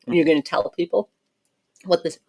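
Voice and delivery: talking with mouth full of chocolate. Real, not acted. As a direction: speak through a mouthful of chocolate. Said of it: "I have chocolate in my mouth now".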